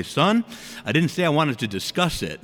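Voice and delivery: lightly imitated stern dad; father cutting off protest. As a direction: shut the argument down as dad. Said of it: "my father would say".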